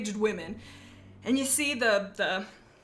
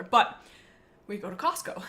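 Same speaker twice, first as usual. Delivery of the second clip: winded, breathless speech; talking short of breath; 2 semitones lower than usual. Real, not acted. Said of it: "I feel like I'm out of breath".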